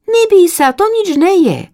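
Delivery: high, loud, cheering little voice; encouraging sister chick. Acted. Sister chick urges the scared chick to jump, high and loud. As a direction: cheer her on from below.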